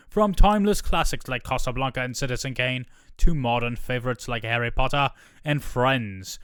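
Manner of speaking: a hint of an upbeat British executive; continuity voice. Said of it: "I just need to have a continuity voice".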